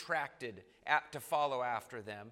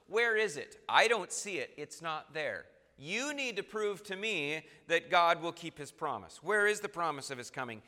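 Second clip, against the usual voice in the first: skeptical scoffer; 2 semitones higher, 4 dB louder than usual. Retold or imitated. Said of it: "A scoffer asks a, a skeptical question".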